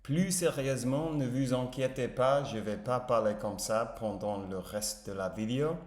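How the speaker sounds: careful imitation of a French speaker; shadowing native pronunciation. Shown as a demonstration. Learner echoing a paused French video line, careful shadowing. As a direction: repeat it as close to the native model as possible. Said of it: "je vais essayer de répéter".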